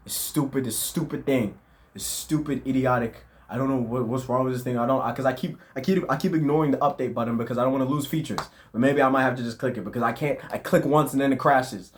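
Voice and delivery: annoyed, griping complaint; real exasperation. Real, not acted. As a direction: vent at a crashing app, voice pushed up. Rants about editing app crashing.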